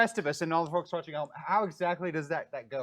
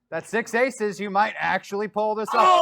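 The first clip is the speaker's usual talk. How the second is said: excited; 4 semitones higher, 8 dB louder than usual. Real, not acted. GM excited at dice.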